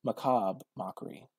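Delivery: Macabre as muh-KAHB, no final "ruh"; slow, careful Macabre Mockery, Macabre ending on the b; trying new pronunciation. Shown as a demonstration. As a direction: drop the "re" of Macabre before Mockery. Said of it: "why people say it that way".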